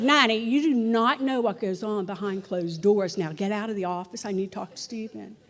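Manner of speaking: playfully bossy, breaking into laughter; mock-stern, laughing. Telling Nanny to leave the office, half laughing. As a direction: hold the prank but laugh through it. Acted prank, shooing Nanny out.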